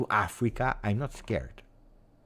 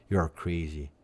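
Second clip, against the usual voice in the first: ordinary talk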